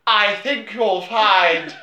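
slow, drawn-out mock self-assurance; mock smug reply. Actress insists she can do the accent, mock smug. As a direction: take your time, utterly sure of yourself. Vanessa Hudgens quoted as confident.

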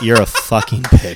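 laughing through it, teasing; laughing insult. Shown as a demonstration. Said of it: "you can be sarcastic".

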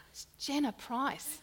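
a laughing retelling of the call. Retold or imitated. Friend announces herself on phone.

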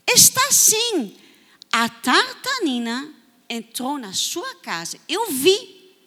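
put-on a boy insisting to a lying adult he saw his friend; insistent boy. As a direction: stand your ground against the grown-up. Boy insists against adult lie.

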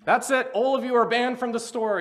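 loud, high mock yell of a fed-up manager; manager's yell. Manager banning rowdy men from the store, imitated yell. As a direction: imitate a stern manager yelling an order. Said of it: "yelled the manager".

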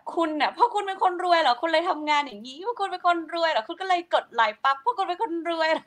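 high, needling imitation of a sarcastic wife; mocking jab. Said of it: "พูดกัดกันอะ".

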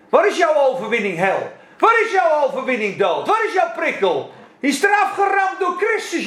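loud, high challenge to death; defiant preaching cry; triumphant shout. Real, not acted. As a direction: hurl the question at death. Preacher taunting death again.

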